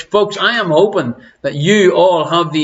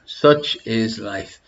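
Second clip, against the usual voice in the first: slow drawn-out resigned; 5 semitones lower, 5 dB quieter, much slower than usual. Acted.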